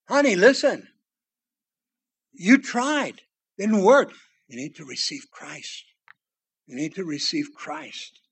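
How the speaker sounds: a wife gently begging her husband to believe; tender plea. Acted. Wife pleading with husband Pilate.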